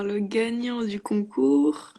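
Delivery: slow, drawn-out winner reveal; hyped giveaway announcement. Acted. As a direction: stretch it out for suspense. Streamer announcing contest winner.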